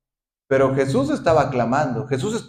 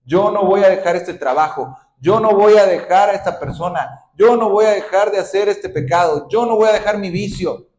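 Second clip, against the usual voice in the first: obstinate defiance; 4 dB louder than usual. Acted. Te montes en tu macho.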